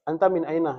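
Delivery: careful Fusha, Anta min aina; standard Arabic. Shown as a demonstration. Teacher contrasts standard Arabic with the dialect, careful. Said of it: "bahasa Arab Fushanya".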